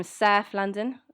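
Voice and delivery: "South London" drawn out in a local London accent. Shown as a demonstration. Telling listeners where they're from, drawled South London accent. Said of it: "as we say over in good old Blighty".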